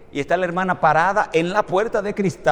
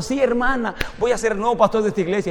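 excited; 3 semitones higher, faster than usual. Retold or imitated. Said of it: "Y yo súper emocionado".

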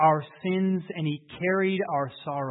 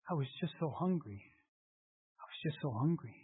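tearful confession; 10 dB quieter, faster than usual. Acted. Hungry boy confesses, crying.

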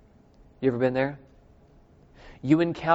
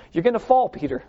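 laughing; 4 semitones higher than usual. Retold or imitated. Preacher teasing Peter's coming fall, laughing. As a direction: chuckle through the warning to Peter. Laughing repeat of Jesus' warning.

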